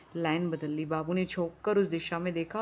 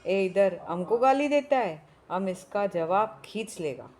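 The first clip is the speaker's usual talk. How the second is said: angry Pathan shouting; 2 semitones higher, 5 dB louder than usual. Acted. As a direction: yell back in outrage. Pathan shouting back in anger.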